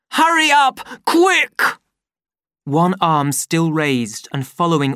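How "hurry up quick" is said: high, loud urging; angry hurry. A narrator's reading. Savage driving Lenina away in anger. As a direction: snap at her to move.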